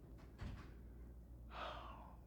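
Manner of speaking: soft, drawn-out breath out; long sigh. Acted. Doctor turning to poor Connie, long sigh. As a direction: let out a long quiet sigh.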